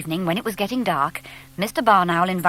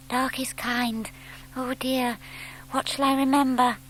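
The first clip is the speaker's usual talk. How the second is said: soft, slightly higher owlet muttering; nervous mutter; 5 semitones higher, 6 dB quieter than usual. Acted. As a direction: talk yourself out of fear, quietly. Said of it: "Plop muttered to himself".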